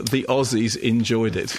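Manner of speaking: slow, measured mock tagline; poster quote. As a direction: read it out like a film poster blurb. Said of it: "That'll go on the poster".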